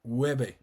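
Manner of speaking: llueve, the LL glided like a Y; y sound. Shown as a demonstration. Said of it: "So it makes a Y sound".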